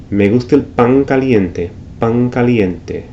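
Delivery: pan said pang before caliente; slow pang caliente, back nasal n; velarized n. Shown as a demonstration. Teacher repeating Caribbean velar n. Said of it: "could be".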